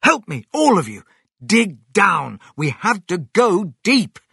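loud, high rallying calls; rally the family urgently; urgent commands. Acted. Fox urges family to dig.

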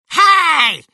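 high, loud holler; calling out. A narrator's reading. Grandma shouts down from the roof, high loud call. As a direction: yell for attention from far away. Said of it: "Grandma called from the roof".

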